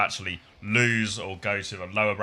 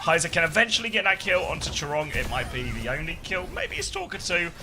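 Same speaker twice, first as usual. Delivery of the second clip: live play-by-play. Acted. Casts the match.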